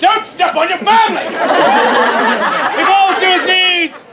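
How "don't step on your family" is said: exasperated called-out warning; playful stage-director shout; mock scolding. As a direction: holler it as a comic reprimand. Calls out scolding an actor.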